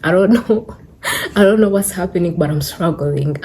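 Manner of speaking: breathless, laughing between words; catching breath while talking. Real, not acted. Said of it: "I'm getting out of breath".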